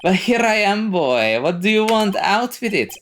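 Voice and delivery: high, pompous, demanding lawyer; Marvin Grossberg. Acted. Lawyer presses young visitor to speak up, pompous. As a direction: demand the point grandly.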